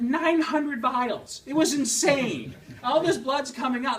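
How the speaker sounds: loud, high, laughing exaggeration; laughing disbelief. Real, not acted. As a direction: marvel at it through a laugh. Exaggerated blood draw story.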